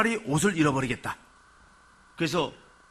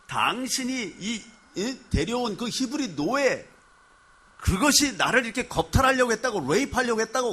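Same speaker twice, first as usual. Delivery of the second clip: shrill accusation; 7 semitones higher than usual. Retold or imitated. Wife throwing the robe at her husband, indignant and accusing. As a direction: spit out the accusation, word by word.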